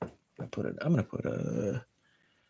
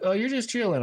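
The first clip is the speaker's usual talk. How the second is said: high surprised quote; 13 semitones higher than usual. Retold or imitated. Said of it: "they're like".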